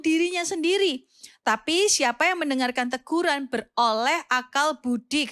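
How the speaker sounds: measured Bible reading voice; scripture reading. Acted. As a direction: read the verse aloud with care. Reads Proverbs aloud.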